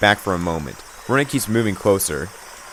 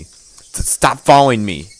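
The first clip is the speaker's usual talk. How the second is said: loud frightened shout; panicked yell; 3 semitones higher, 5 dB louder, much slower than usual. Acted. Fleeing, yelling at pursuer.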